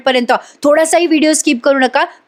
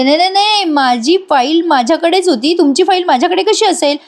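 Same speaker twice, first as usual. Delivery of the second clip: flustered denial; 6 semitones higher than usual. Acted. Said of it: "Arya आता गडबडते".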